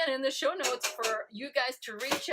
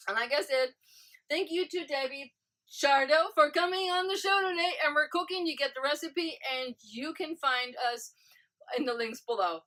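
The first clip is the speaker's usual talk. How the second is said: upbeat outro; 3 semitones higher than usual. Acted. Loud upbeat show sign-off.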